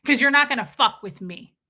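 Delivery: loud, hammering lecture to camera; imitating him threatening viewers through the camera; mock stern threat. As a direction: stare down the lens and lay down the law. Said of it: "look right into the camera and go".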